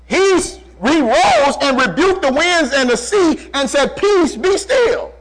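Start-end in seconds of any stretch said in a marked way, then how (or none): 4.0-5.1 high, drawn-out command; commanding the storm. Acted. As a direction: call out slowly to still the wind and sea. Voices Jesus commanding the storm.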